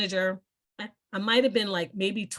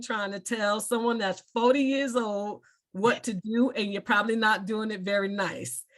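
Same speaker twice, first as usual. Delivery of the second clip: put-on Southern accent; 3 semitones higher than usual. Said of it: "in his Southern accent".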